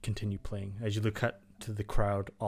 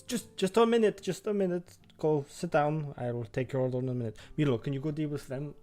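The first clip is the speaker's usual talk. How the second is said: flustered innkeeper; 5 semitones higher than usual. Acted. Busy innkeeper fending off customers.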